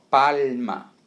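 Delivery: "palma" slowly, with a long, clear L; held L demo. Shown as a demonstration. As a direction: stretch the A and L in "palma". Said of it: "mais uma vez aí o A e o L". ("palma" bem devagar, com L marcado)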